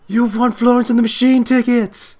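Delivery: loud, high, thrilled announcement; excited shout. Retold or imitated. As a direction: belt it out like a radio DJ. Radio DJ announcing the win.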